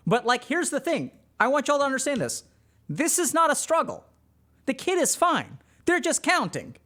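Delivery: a hint of a soothing parent; reassuring parent. Parent soothing a child about OCD, lightly voiced. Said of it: "your parent shows up and says".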